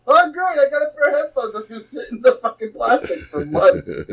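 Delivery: high-pitched sarcastic mock thanks; unhappy. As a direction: act out fed-up, fake gratitude. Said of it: "can't even be happy about it".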